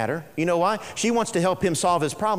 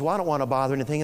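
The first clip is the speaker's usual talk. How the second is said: hurried, shy woman; 5 semitones lower, much faster than usual. Retold or imitated. Shy woman at church declining.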